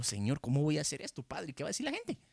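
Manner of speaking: mild mock embarrassed worry, climbing high at the end; avergonzado. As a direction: act out a self-conscious plea to God, pitch rising sharply. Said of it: "sentirse avergonzado". (con vergüenza fingida, cada vez más agudo)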